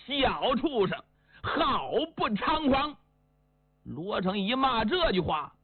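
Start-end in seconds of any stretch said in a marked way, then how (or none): 0.1-2.9 angry curse. Acted. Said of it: "给气的呀".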